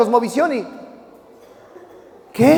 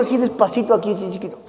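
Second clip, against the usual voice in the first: very soft, lowered dad voice; tender coaxing; 3 semitones lower, 6 dB quieter, faster than usual. Acted. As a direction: fade almost to nothing, sweetly coaxing. Padre pide beso suave. (en voz bajita, tierno y mimoso)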